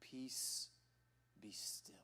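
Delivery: soft, whispered "Peace, be still"; calm the storm with a whisper; Jesus hushing the storm, barely above a whisper; hushed command. Retold or imitated. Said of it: "He says".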